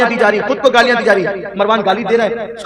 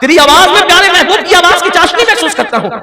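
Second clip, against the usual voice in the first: high, loud impassioned sermon delivery; soaring pulpit storytelling; full-force preaching; 7 semitones higher, 6 dB louder than usual. Acted. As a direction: preach it out with fervour to the hall. Preacher's emotional story opening.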